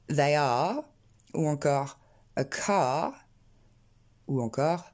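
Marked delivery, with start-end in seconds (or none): 0.1-0.8 ARE with long open "aah", no r; long A sound. Shown as a demonstration. Teacher giving words learners surely know, long English vowel. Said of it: "c'est le son A, comme pour". 2.4-3.1 CAR as a slow "kaah", no r; long A sound. Shown as a demonstration. Teacher giving another known example, long English vowel. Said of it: "c'est le son A".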